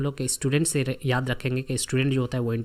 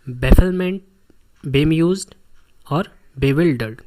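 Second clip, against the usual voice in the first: each word hammered out louder with pauses between; loud drilling repeat; 6 dB louder, slower than usual. Shown as a demonstration. Teacher drilling the class on the same words, loud and slow. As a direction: repeat each one loud and separate, dragging out bewildered very slowly.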